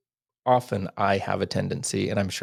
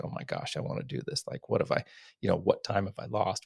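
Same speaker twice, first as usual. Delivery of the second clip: hushed whisper, as if thinking aloud; whispered inner thought; 5 dB quieter than usual. Retold or imitated. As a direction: breathe the words as a private thought. Inner thought while listening.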